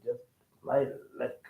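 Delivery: muttered low and soft in a put-on Nigerian accent; soft mock Nigerian accent; imitating a Nigerian speaker. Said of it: "And you say".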